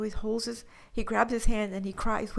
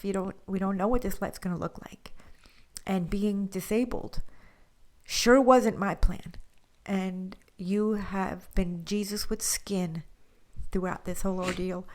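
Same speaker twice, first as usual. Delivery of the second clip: tearful whisper. Real, not acted. Wife thanking husband on the podcast, whispered and moved. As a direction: let the gratitude choke the voice.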